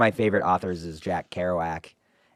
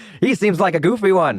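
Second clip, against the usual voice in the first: put-on old-time radio voice, higher and louder; 11 semitones higher, 8 dB louder than usual. Doing a made-up old-time radio skit: old-timey radio voice. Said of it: "go old timey".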